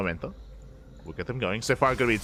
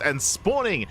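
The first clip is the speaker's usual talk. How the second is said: match announcer. Acted. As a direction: present the contenders like an announcer. Announcer introduces the two players.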